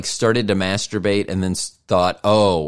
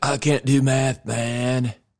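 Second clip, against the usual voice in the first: stoner type's voice, pitched up; 5 semitones higher than usual. Speaker acts out how stoners talk about doing math, in a stoner voice. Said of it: "I don't know why that's how my stoner".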